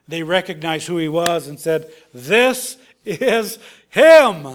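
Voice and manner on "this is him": awed recognition. Acted. Disciples recognize the risen Jesus.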